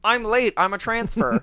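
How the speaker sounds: a hint of a nervous new cop; mock excuse. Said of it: "First day on the job".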